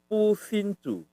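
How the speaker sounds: "Pusincu" high, ending in a falling cu; high, questioned "Pusincu"; nonexistent word. Shown as a demonstration. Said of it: "Nggak ada pusincu ya".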